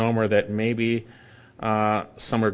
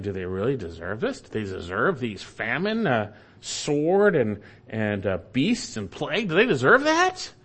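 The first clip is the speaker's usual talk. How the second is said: incredulous elders. Retold or imitated. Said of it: "the elders might be saying".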